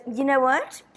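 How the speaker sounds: high, haughty snob voice; lightly voiced snooty hydrogen; snobby voice. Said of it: "And it's a nice snobby voice".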